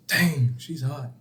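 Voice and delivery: imitated customer, slow and under the voice; drawn-out, soft "dang" of admiration. First, softer take of customer's remark.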